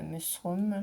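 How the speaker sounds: "Mushroom" said slowly in a careful English attempt; unsure English word. Real, not acted. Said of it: "je crois que ça se prononce comme ça".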